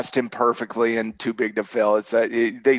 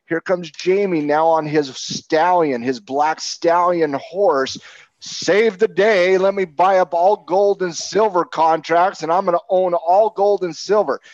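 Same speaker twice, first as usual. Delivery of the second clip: hammed-up heroic savior, higher and slow; mock Jamie Dimon; 4 semitones higher than usual. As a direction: play the swaggering banker riding in to save the day.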